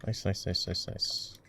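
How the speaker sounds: murmured nice, fading out; fading whisper. Real, not acted.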